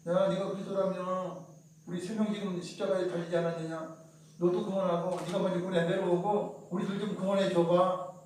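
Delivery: scornful taunt. Retold or imitated. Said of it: "비방하며 말을 하죠".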